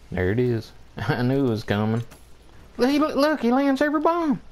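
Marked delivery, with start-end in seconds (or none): 2.8-4.4 outraged disbelief. Real, not acted. Outraged at the enemy's aim.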